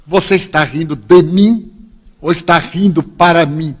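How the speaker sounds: mock yell from across the queue; shouted challenge. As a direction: imitate a man picking a quarrel. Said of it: "E ele gritou de lá".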